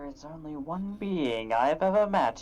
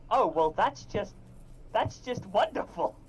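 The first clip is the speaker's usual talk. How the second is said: dry, sarcastic "wonderful"; 3 semitones higher than usual. Acted. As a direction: say it with heavy sarcasm. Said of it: "Sarcasm very much intended".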